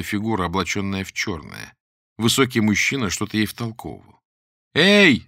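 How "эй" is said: high, loud call for attention; shout. Acted. Lera shouts from the attic window to a passerby. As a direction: yell to be heard outside. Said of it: "закричала Лера".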